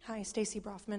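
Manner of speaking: hoarse, croaky greeting; real croak from a sore throat. Real, not acted. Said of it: "Excuse my croaky voice".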